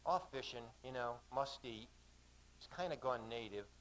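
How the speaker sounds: lightly acted Australian woman; offhand answer in an Aussie accent; understated Aussie character voice. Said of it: "she said in an Aussie accent".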